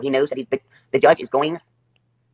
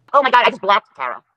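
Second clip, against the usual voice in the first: shocked; 7 semitones higher, 5 dB louder than usual. Real, not acted. Sudden realization, loud.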